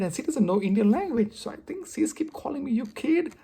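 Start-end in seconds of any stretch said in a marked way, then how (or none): 2.7-3.3 raised, higher coworker's voice; imitated big tone. Imitating the coworker who keeps saying it, big tone. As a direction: mimic the coworker's big, high delivery. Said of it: "and she has a big tone".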